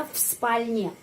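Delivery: в спальне, в devoiced to f; quiet в спальне, в as f. Shown as a demonstration. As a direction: say в спальне with a soft f. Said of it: "kita mengucapkan V sebagai V".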